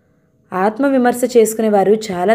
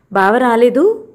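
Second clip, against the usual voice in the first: reproachful; 3 semitones higher, slower than usual. Acted. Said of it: "అంది నిష్ఠూరంగా".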